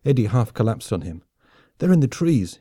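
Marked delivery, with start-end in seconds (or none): 1.8-2.6 higher, urgent gasped warning. A narrator's reading. Soldier warning his friend of the enemy, gasped. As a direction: blurt out the warning, short of breath. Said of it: "he gasped".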